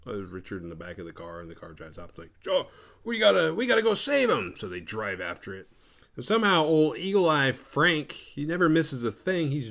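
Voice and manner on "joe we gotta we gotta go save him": high, loud urgent plea; hammed-up alarm, pitched way up; mock panic. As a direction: act out a frantic rescue cry. Retold panic at car leaving.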